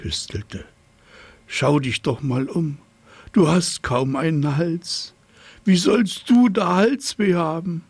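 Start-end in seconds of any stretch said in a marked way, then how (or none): 1.5-7.8 a higher, lightly voiced know-it-all giraffe; haughty giraffe. A narrator's reading. Giraffe lecturing the hippo about his short neck, haughty. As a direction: talk down to him, a little higher.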